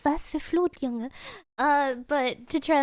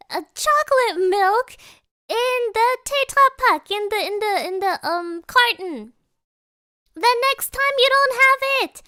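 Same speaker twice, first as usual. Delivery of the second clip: high, loud mock yelling rant; retold scream; 8 semitones higher, 7 dB louder than usual. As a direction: imitate the angry gas station guy shouting him down. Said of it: "starts screaming".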